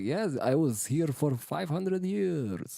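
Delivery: slow, high, put-on vampire drawl. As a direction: stretch it out like an old vampire. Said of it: "someone's doing a vampire impression".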